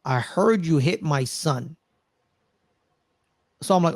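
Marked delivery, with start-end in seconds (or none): 0.0-1.8 a hint of a slow, menacing crime boss; drawn-out threat on the phone. Crime boss threatening the caller over his son, slow and menacing. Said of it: "calls John Leguizamo and says".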